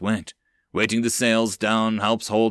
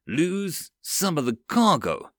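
outraged cry; 6 semitones higher, slower than usual. Acted. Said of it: "A March cried".

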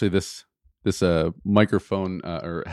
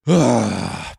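pointed sigh; 5 dB louder than usual. Retold or imitated. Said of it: "you might hear a".

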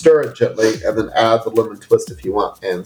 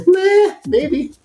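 much higher, shrugging meh; dismissive meh. Retold or imitated. Retelling the coworker's shrug, a high dismissive meh. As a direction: toss it off with a shrug. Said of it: "He's like".

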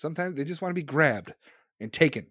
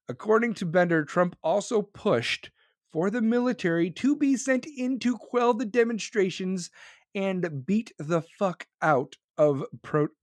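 measured, deliberate serious reading; careful, serious article read. Shown as a demonstration. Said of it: "This is my serious voice".

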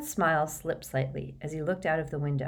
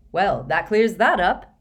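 sarcastic; 3 semitones higher, 7 dB louder than usual. A narrator's reading. Ron's sarcastic reply to vague answer.

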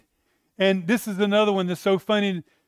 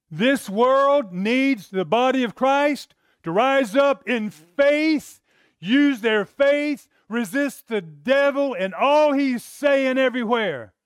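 preacher rallying the congregation to rise up; preaching exhortation; 3 semitones higher, slower than usual. Acted. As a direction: drive the call home slowly, pulpit style.

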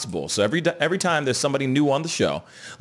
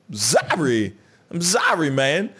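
normal talking voice

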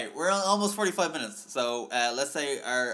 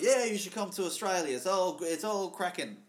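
higher-pitched mock-Australian sales pitch; Paul Hogan; 6 semitones higher than usual. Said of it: "he was Crocodile Dundee".

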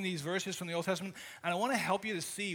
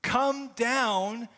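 pleading cry; 3 semitones higher, 4 dB louder than usual. Acted. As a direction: call "Come down" up to heaven, urgent. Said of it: "that desperate prayer".

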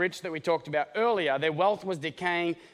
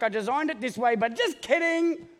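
sing-song, much higher and slowed on the last words; mock God backtracking; 5 semitones higher than usual. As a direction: tease God taking it back, stretching "just kidding" up high. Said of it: "He was like".

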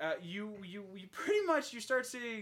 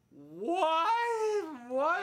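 loud, high, stunned cry; acted disbelief; 12 semitones higher, 8 dB louder than usual. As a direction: blurt it in mock shock. Butcher's shock at ending, retold.

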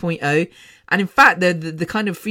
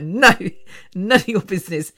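laughing. Retold or imitated. Laughing refusal to nosy fans.

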